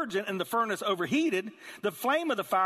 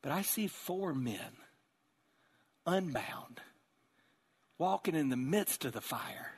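awed wonder. Acted. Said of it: "was astonished".

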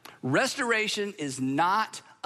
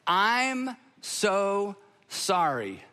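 a slow, simple apology with nothing after it; slow sincere apology; much slower than usual. Shown as a demonstration. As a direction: say it slowly, then stop. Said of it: "sounds like".

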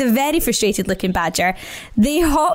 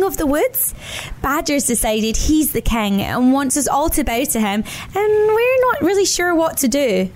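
higher, lightly voiced anxious bunny; timid rabbit; 4 semitones higher than usual. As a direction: ask the bear shyly. Rabbits ask Brown Bear.

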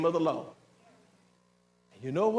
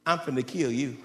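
voice of God; 5 semitones lower than usual. Acted. Pastor voicing God to the disobedient sons, low and stern. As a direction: speak as God, low and final.

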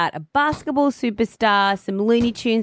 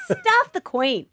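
laughing; 12 semitones higher, slower than usual. Real, not acted. Laughing defiant declaration.

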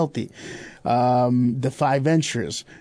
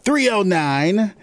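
slow dictation; 2 semitones higher, much slower than usual. Shown as a demonstration. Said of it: "Here we go".

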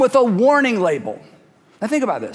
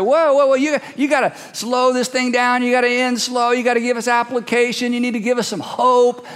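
mock pleading protest; 3 semitones higher than usual. Voices listeners pleading with James.

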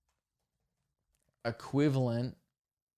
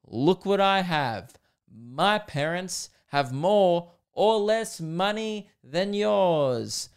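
drawn-out mock childish bragging, pitched up; show-and-tell kid; 5 semitones higher, much slower than usual. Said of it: "back in primary school when you bring in".

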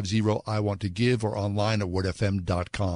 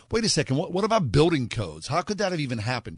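higher-pitched, imitating incredulous public reaction; mock indignant questioning, pitched up; outraged disbelief; 5 semitones higher, faster than usual. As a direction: voice a mildly outraged double take. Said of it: "People were outraged, and justifiably so".

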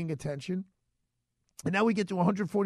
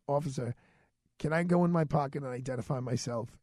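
very calm; 4 semitones lower than usual. Retold or imitated. To the police officer, asking calmly to show ID. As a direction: stay very calm to the cop. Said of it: "So very calmly".

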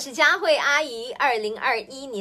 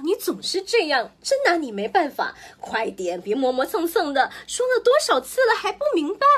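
much higher, louder, rushing scold; relentless nagging; 5 semitones higher, 5 dB louder than usual. Acted. Mother listing all her usual scolding at the child, loud and fed up. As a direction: pile on the nagging, ever more fed up.

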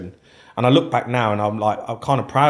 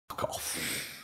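breathy under-the-breath fuck off; half-whispered retold reaction; muttered disbelief; 6 semitones lower, 19 dB quieter than usual. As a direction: mutter it to yourself, stunned.

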